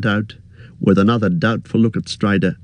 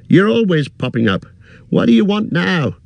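higher, fussy innkeeper voice; chatty innkeeper chattering on, pitched up; 12 semitones higher than usual. Acted. Innkeeper warning hobbit guest, higher fussy voice.

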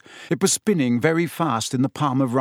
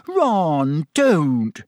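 louder, sharp angry warning; 4 semitones higher, 4 dB louder than usual. Acted. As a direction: stop him angrily. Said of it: "said Hermione angrily".

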